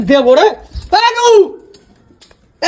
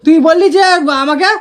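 stuck on repeated syllables; stammering; slower than usual. Real, not acted. Boy accusing sibling over a promise, stammering. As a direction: stutter and restart the accusation. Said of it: "তোতলাস কেন".

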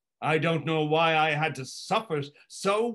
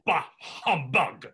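catchphrase on demand. Shown as a demonstration. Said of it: "demand that I say it".

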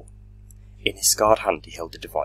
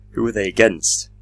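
higher, louder anguished cry; 5 semitones higher, 8 dB louder than usual. A narrator's reading. Doctor watching Time Lords killed, crying out loud. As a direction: cry out the question in despair. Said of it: "cried the doctor".

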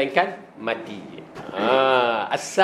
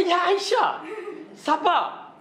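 gentle Prophet; 14 semitones higher, slower than usual. Retold or imitated. Prophet calms Aisyah.

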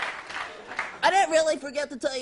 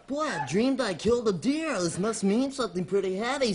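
a hint of a musing man, lower pitched; lightly voiced dreamer; 5 semitones lower than usual. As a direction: lightly act a low, pondering sleeper just awake. Acts dreamer waking, musing.

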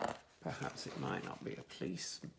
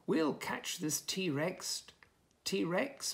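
determined promise; 4 semitones higher, much slower than usual. Acted. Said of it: "promised Sergeant Stig".

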